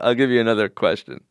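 normal talking voice

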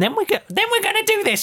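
very high, prissy teacher voice; squeaky mock teacher voice announcing the plan. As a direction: parody her recital in a shrill put-on. Mocking the teacher.

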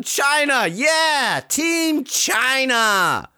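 high, slow, hammed-up Chinese accent; slow mock Chinese accent ending in a shout of Team China. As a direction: play up a cartoonish Chinese accent, proud and boastful. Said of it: "the traditional Eileen Gu Chinese".

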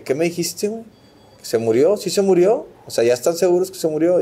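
retelling his frantic questions on the phone; retold frantic disbelief. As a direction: replay the panicked call, pressing for the truth. Retelling phone call after brother died.

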